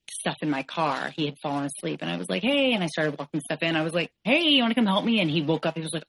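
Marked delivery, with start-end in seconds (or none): 2.4-2.7 high, louder retold "hey"; bright greeting imitated. Girlfriend greets her sleeping boyfriend on arriving, high retold greeting. 4.2-5.2 retold request. Calls sleeping boyfriend to help.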